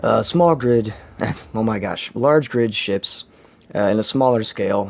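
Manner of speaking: lost voice, hoarse and worn; talking through a lost, hoarse voice. Real, not acted. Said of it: "lost my voice".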